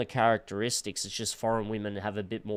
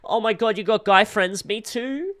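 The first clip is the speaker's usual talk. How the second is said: high mocking voice of the guy; talking toilet; 8 semitones higher, 4 dB louder than usual. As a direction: mimic him high and whiny. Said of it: "That's how that guy talks".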